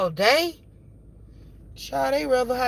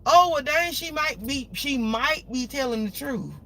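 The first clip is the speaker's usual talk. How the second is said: imitating her kids, caught off guard and higher; mock surprise; 4 semitones higher than usual. Kids finally believing the closure, a mock surprised voice. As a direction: play the doubting kids suddenly convinced. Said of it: "Then they'll believe".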